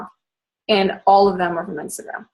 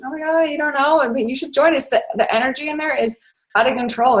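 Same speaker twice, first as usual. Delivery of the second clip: higher-pitched gushing sales pitch; acted enthusiasm; 5 semitones higher than usual. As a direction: play amazed they don't know, then gush. Acted enthusiastic invitation to contact.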